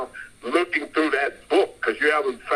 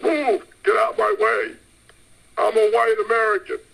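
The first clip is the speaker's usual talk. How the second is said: mock shopper scream; 6 semitones higher than usual. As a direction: yell it like a pushy shopper grabbing baskets. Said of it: "screaming out".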